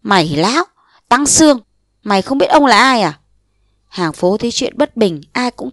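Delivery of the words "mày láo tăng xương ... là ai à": bullying scolding. Acted. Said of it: "trỏ vào mặt Tam mà mắng".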